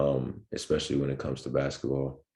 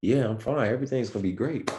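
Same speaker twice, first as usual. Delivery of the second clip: high, dazed and breezy, brushing it off; half-out-of-it cheerful high voice; dazed reassurance; 9 semitones higher than usual. Retold or imitated. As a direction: play the groggy guy insisting he's fine. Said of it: "And I was like".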